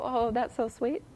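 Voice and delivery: slow, drawn-out mock "how sweet"; mock sweet gush. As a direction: gush over it like it's adorable. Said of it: "Anybody go".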